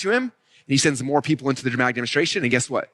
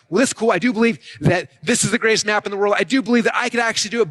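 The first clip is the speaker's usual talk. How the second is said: mock eager believer; 4 semitones higher than usual. Voicing an excited audience member.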